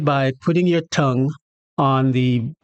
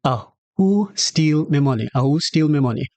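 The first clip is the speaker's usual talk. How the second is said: Jamaican patois. Shown as a demonstration. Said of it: "someone says".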